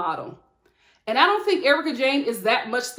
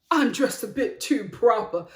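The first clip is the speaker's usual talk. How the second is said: Sutton. Retold or imitated. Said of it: "And then Sutton was just like".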